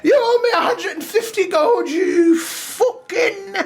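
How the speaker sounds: put-on a furious old drunk shouting across the tavern; angry old drunk. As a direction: rage like a sore loser who lost his bet. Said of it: "He says".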